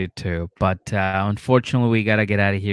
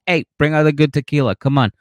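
loud, fast, higher hyped-up dad; excited dad; 4 semitones higher, 4 dB louder, faster than usual. Retold or imitated. Dad cheering boyfriend at family table, loud and hyped. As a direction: play the thrilled father celebrating.

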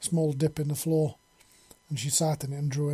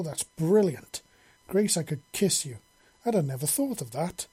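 put-on eager, lively young engineer voice; suddenly thrilled by a new idea; excited engineer.

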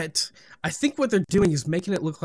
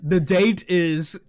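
slow, drawn-out mock announcer; lightly hammed-up show opener; mock announcer intro; 3 semitones higher, 3 dB louder, slower than usual.

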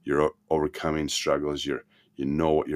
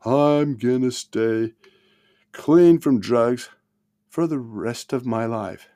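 slow, high and loud, every word drawn out; earnest vow; 7 semitones higher, 6 dB louder, slower than usual. Retold or imitated. A student vowing to stay clean before the class, slow and solemn. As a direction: declare it like a solemn pledge to the class. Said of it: "The person says".

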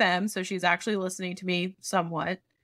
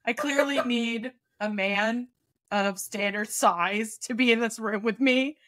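sarcastic drawl; slower than usual. Retold or imitated. Sarcastic aside, slowed.

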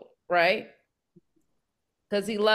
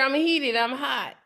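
mildly heated, slangy divine scolding; acted angry God; 3 semitones higher than usual. Teacher voices God fed up with the people, mildly angry. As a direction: play fed up, voice lifting as it goes. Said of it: "I'm pissed off".

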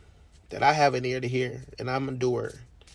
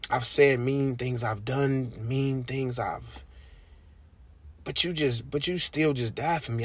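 quiet inner prayer; 4 dB quieter than usual. Retold or imitated. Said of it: "I sit back and I say".

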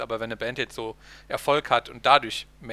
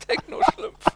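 laughing through the words; cracking up mid-word; breaking character; 17 dB louder, slower than usual. Real, not acted. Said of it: "Sorry, ich muss lachen".

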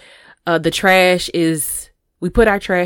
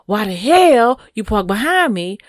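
irritated question; 3 semitones higher, 3 dB louder than usual. Shown as a demonstration. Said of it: "go say".

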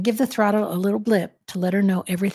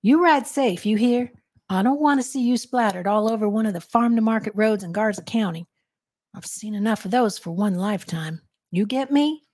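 grave Texan deputy warning the rider; deputy's somber plea to ride safe; 3 semitones higher than usual. Acted. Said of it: "In a somber tone".

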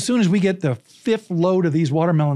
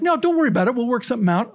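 everybody reassuring; 7 semitones higher, faster than usual. Retold or imitated. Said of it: "And everybody's like".

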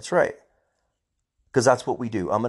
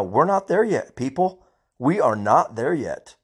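angry rant; 3 semitones higher than usual. Real, not acted. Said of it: "I'm angry".

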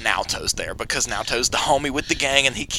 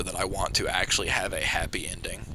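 sincere whisper; 7 semitones lower, 9 dB quieter than usual. Real, not acted. Heartfelt wish for the show.

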